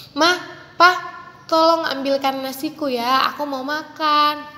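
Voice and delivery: put-on gentle, polite child asking nicely; a kind little ask for food; polite request. Shown as a demonstration. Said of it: "lebih sopan".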